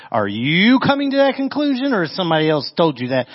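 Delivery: light rabbinical counter-question; rabbinical question back. Acted. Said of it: "Jesus replies, too, in a very rabbinical fashion".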